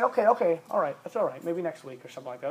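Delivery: put-on teen calmly accepting parent's no; meek acceptance. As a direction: back down politely and quietly. Acted respectful teen reply.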